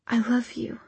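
breathy whispered confession. A narrator's reading. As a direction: whisper it against him. Hushed confession while embracing him.

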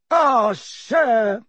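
high, tearful gasp; gasping elf. A narrator's reading. Dobby overcome with tears before Harry, high gasp. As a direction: choke out the words in tears. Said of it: "he gasped".

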